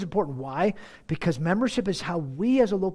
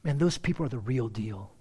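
admiring; 6 semitones lower than usual. Acted.

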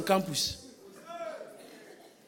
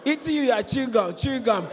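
fast shout; 3 semitones higher, 5 dB louder, faster than usual. Real, not acted. Preacher mocking the man's lust.

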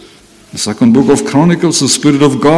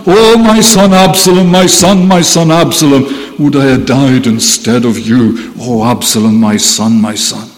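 mild acted grief, sinking steadily lower; heartbroken lament; 5 semitones lower than usual. Preacher quoting David mourning his son Absalom, heartbroken lament. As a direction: start with a mournful cry, let it sink low and fade on the last words. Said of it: "his heart was breaking".

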